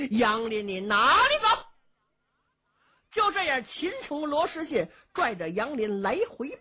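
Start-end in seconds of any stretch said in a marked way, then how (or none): 0.1-1.5 louder challenging call; battle cry. Acted. Qin Qiong calling out after Yang Lin, loud challenge. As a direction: shout the challenge after him. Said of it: "一边喊".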